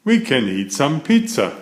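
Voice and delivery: fast happy cheer. Acted. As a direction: rush it out with joy. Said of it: "Grumpy Toad cheers".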